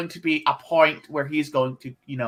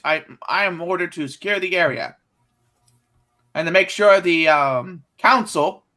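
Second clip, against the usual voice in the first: droid voice; 3 semitones higher, 4 dB louder than usual. Acted. Commando droid on duty.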